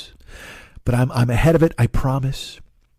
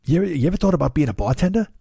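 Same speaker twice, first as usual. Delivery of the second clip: a hint of Lou's quick, eager pitch; lightly voiced neighbor making a casual offer; Lou impression; 3 semitones higher, faster than usual. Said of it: "your ears are bleeding from my Lou".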